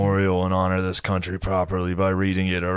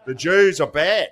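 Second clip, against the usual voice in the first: mock Mel; 9 semitones higher, 5 dB louder, slower than usual. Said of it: "He's like".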